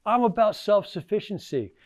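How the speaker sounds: a hint of a confident campaigning president; Reagan impression. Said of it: "He says".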